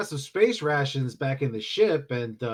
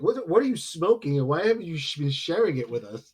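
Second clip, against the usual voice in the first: incredulous; 5 dB louder than usual. Acted. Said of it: "looking at the captain like".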